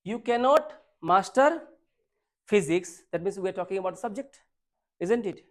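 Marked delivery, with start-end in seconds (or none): 0.1-2.9 reading the sentence very slowly, word by word; slow dictation. Shown as a demonstration. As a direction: spell it out slowly for students to copy. Teacher reads question sentence aloud. (बहुत धीरे, शब्द-शब्द पढ़ते हुए)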